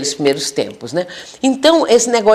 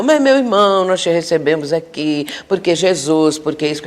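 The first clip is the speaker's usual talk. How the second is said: mild imitation of a counselor reciting stock answers; preachy counselor. Counselor lecturing an angry spirit with stock phrases, lightly imitated. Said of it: "por que que o doutrinador não fala assim".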